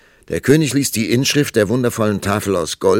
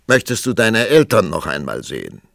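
roaring tyrant king; 2 semitones higher, 6 dB louder than usual. Acted. King questions the prince.

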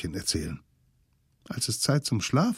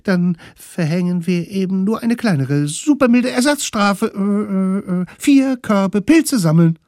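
put-on very high, loud stammering children; high nervous kid voice; nervous kids' voice; 11 semitones higher, 7 dB louder than usual. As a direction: stammer out a deal like flustered kids. Kids backpedal nervously.

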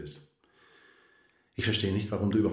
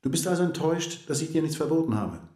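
spöttisch; 6 semitones higher than usual. Acted. Spöttische Gegenfrage des Mannes.

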